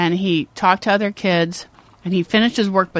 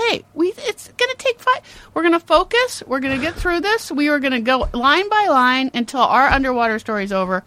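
put-on higher-pitched coaxing of a child; encouraging mother; 6 semitones higher than usual. Mother coaxing her upset son through homework, encouraging. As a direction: talk a kid through it, upbeat.

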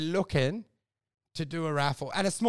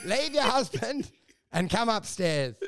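loudspeaker horoscope. Pretend. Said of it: "Wolf will do a horoscope on a loudspeaker".

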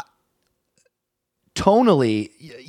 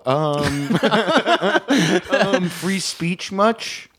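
sarcastic; 12 semitones higher, much slower than usual. Pretend. Mocking Nazi sarcasm.

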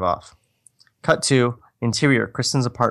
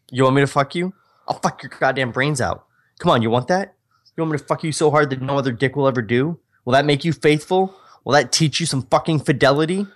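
melodramatic taunting; 3 semitones higher than usual. Acted. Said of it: "It's so melodramatic".

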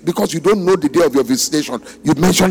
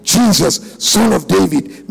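repeated, firmer call. Retold or imitated. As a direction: call again in a fuller voice. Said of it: "Perhaps you didn't hear me the sen-, the first time".

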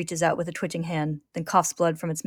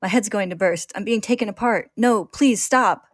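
rising higher and louder into a slow, drawn-out plea; desperate pleading; 4 semitones higher, 6 dB louder than usual. Acted. Ed begging the stream to stop, desperate and slowing. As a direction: beg as the pain builds. Ed being torn apart.

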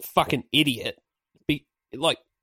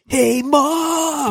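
high, louder American "Hey, mom!" called out; mock American; 12 semitones higher, 3 dB louder than usual. Mocking the band's Americanised lyric, high bright call. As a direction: call out like a cheesy American kid, pitched up. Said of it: "they go with the big M O M".

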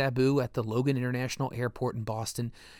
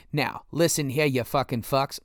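put-on a light touch of a gross Boston accent; Boston accent impression. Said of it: "in his trademark gross Boston accent".

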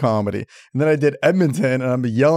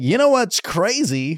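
slow, higher, mock earnest; comic to crowd; 6 semitones higher, much slower than usual. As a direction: lean in to a crowd that isn't listening. Comic addressing drunk crowd.

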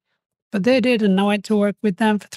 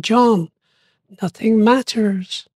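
slow mysterious voice; slower than usual. Retold or imitated. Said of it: "And the voice said".

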